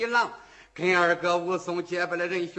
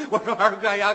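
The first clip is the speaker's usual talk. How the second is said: loud alarmed cry to big brother; frightened yell; 6 dB louder, faster than usual. Acted. Shi En begs Wu Song to put the blade down, scared yell. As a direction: shout him to stop, scared. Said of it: "施恩吓得直嚷嚷".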